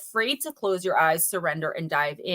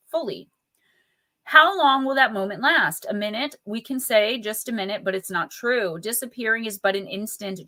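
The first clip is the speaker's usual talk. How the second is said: reading the card's poem aloud to viewers; poetic card reading. Acted. Reads card text aloud.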